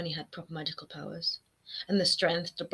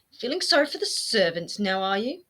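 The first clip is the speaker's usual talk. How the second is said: hissed in disgust; 4 semitones higher, 6 dB louder than usual. A narrator's reading. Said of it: "he hissed in disgust".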